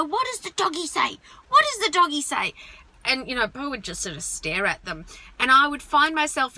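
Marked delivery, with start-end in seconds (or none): 0.0-2.5 put-on talking to a toddler. Friends quizzing toddler, varied tone.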